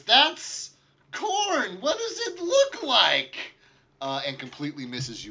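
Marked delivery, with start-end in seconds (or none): 0.0-3.4 high-pitched, loud, exasperated outburst; indignant yell. Acted. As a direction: yell it like an outraged merchant. Acted merchant's indignant retort.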